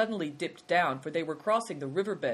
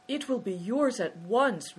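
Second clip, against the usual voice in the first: high, drawn-out relief; lifted, relieved voice; 7 semitones higher, 4 dB louder than usual. A narrator's reading. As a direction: promise it with relief. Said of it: "in a tone of relief".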